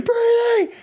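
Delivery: high-pitched mock scream of a name; retold scream. Passenger wakes as car leaves the road, imitated high scream. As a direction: scream it in imitation, very high but not at full volume. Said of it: "Like, I'm screaming".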